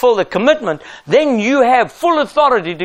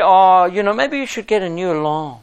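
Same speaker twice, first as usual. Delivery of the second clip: apologetic; 4 semitones lower than usual. Retold or imitated. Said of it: "we apologize to them".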